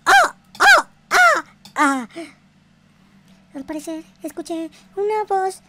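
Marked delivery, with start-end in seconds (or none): none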